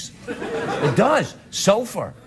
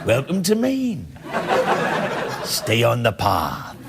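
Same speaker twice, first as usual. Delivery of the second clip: put-on slow Maine accent; 6 semitones lower, slower than usual. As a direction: drawl it like an old Mainer. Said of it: "folks that talk like that".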